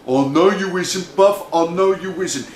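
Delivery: lightly voiced street-slang big brother; big brother mouse. Big brother agrees with little brother, easy swagger. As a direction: back him up with swagger.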